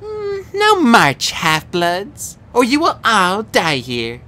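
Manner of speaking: high, slow, cruel villain order; commanding monster cheerleader. A narrator's reading. Kelly orders the half-bloods to march or die. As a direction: bark the threat with relish.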